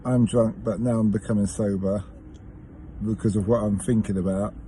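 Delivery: low, hesitant imitation of sobering up; sobering-up pauses. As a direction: pause between phrases as if thoughts are sinking in. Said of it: "she kind of pauses".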